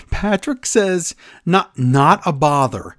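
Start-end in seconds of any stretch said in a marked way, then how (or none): 1.5-3.0 put-on Irish accent. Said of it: "he says it in his Irish accent".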